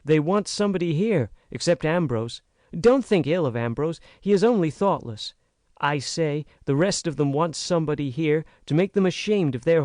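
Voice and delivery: lightly voiced young American woman, rising urgency; frank, earnest girl. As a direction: plead with growing heat. Naomi pours out her complaint.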